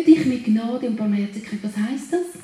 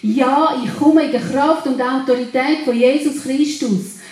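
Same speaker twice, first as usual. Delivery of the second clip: loud, emphatic proclamation of faith; firm, louder confession of identity; louder declaration; 4 dB louder than usual. Real, not acted. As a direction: proclaim it boldly, voice rising in volume. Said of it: "Meine Stimme wird automatisch lauter".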